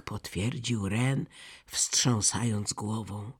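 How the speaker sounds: ordinary delivery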